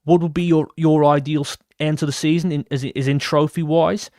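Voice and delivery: attempted Australian accent. Streamer reading an Australian fan's question, bad Australian accent. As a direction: have a shaky go at an Australian accent. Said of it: "shall I speak in an Australian accent here?".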